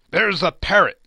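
loud, high, gleeful shout; excited cry. A narrator's reading. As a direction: point and cry out in delight. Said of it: "cried Scrooge".

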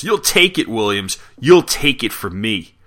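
mock yell, punching the openings of phrases; retold yell. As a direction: raise your voice in a mild acted yell. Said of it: "Pig yells".

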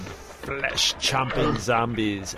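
slow, drawn-out horror announcer; spooky zombie voice. Pretend. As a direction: stretch it out like a creepy movie trailer. Announcing zombie comics segment.

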